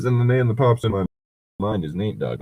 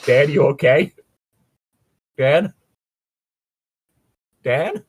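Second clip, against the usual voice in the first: mock concerned calling; 4 semitones higher, 4 dB louder than usual. Acts out calling to hurt Dan.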